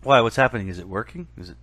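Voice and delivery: muffled over a bad connection. Real, not acted. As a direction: voice dulled as if through a wall. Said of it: "Now it sounds like you're a little muffled".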